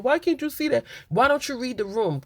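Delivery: high-pitched imitation of a wounded girlfriend; mock whining. Imitating Chelsea scolding her boyfriend, mock high whine. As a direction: keep up the high complaint, easing down slightly.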